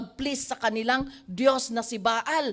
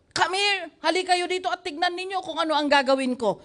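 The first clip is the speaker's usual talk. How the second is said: calling out; 5 semitones higher, faster than usual. Acted. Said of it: "Elijah said to all the people".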